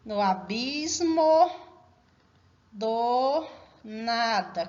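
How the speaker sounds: slow, chopped into syllables with long gaps; scanning the verse. Shown as a demonstration. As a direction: measure out each poetic syllable. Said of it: "Vamos fazer essa canção".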